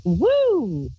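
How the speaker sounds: a quick bright whoop of giddiness; giddy woo. Acted. Host on air, showing her giddy mood with a whoop. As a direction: let out a loopy little cheer.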